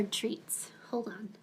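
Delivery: whispered aside. Real, not acted. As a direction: breathe it under your breath. Aside while fetching treats.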